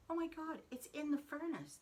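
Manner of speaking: high, loud alarmed cry; high loud panicked realisation; retold panic. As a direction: gasp it out as the fear hits. Panicked realisation about the cat.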